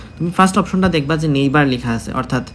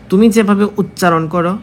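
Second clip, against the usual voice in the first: slow, louder and higher, stressing তুমি; slowed emphatic teaching line; emphatic teacher; 4 semitones higher, 5 dB louder than usual. Shown as a demonstration. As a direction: lean hard on তুমি to drive the point home. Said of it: "teacher stressing point".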